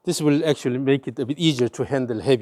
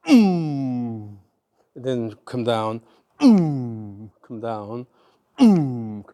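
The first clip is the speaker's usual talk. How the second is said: rhythmic effort grunts; 2 semitones lower, much slower than usual. Shown as a demonstration. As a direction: grunt the backswing, then ease down. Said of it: "in the backswing here".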